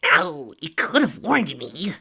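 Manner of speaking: sharp pained cry, high and loud; pained yelp. A narrator's reading. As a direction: yelp it, then complain. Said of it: "Tracy rubbed her backside".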